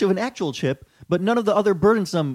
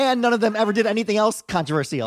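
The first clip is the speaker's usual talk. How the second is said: higher, louder mock white-girl reviewer; 4 semitones higher, 5 dB louder than usual. Reading the tourist's defence of the family, put-on white girl. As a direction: insist like an affronted white-girl reviewer, lightly mocked. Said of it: "in my white girl vo-, voice".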